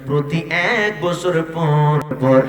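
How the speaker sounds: sing-song promise with stretched phrase endings; intoned sermon reply. Acted. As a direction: chant it as a solemn answer to a devotee.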